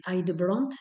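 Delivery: English name in a French speaker's accent; self-mocked English accent. Real, not acted. Vlogger unsure of a therapist's English name, self-mocked English accent. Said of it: "avec mon superbe accent anglais".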